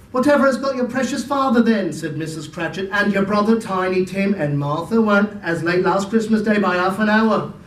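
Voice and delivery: a lightly voiced worried mother; fussing mother. Mrs Cratchit frets.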